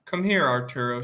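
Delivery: warm invitation. Acted. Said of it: "It was a warm voice".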